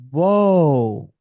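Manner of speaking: stunned. Retold or imitated. Recruit having his bubble burst by squaddies, stunned. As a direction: let it burst out in amazement. Retold shock at squaddies' revelation.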